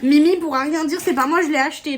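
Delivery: high, loud and eager; excited. Real, not acted. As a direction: blurt it out with glee. Excited defence to camera.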